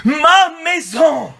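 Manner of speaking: slow-building scriptural cry. Acted. Preacher quoting Jesus in the temple, crying out. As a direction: proclaim it as a quoted outcry. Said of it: "Et il leur dit en s'écriant".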